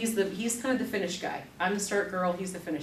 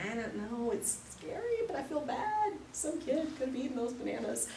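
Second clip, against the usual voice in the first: mock guilty voice; 6 semitones higher, 4 dB quieter than usual. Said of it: "and you're like".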